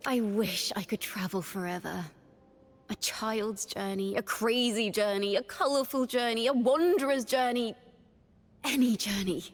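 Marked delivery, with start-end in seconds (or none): 2.9-9.4 building wonder. Acted. Traveler listing every journey they long for, increasingly eager. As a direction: let each item lift in pitch and energy.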